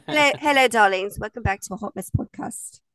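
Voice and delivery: light put-on British accent, hosting; a breezy British podcast-host greeting. Doing a British accent for her cohost, lightly British. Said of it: "I'm waiting for the accent".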